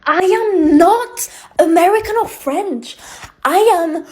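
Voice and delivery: mock seagull squawk talk. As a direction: squawk it like a gull. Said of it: "I can imitate seagulls".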